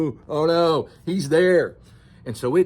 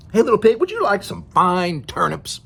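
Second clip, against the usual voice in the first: higher, lightly acted luring voice; coaxing wolf; 5 semitones higher than usual. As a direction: tempt the pig with a friendly offer. Wolf tries to trick pig.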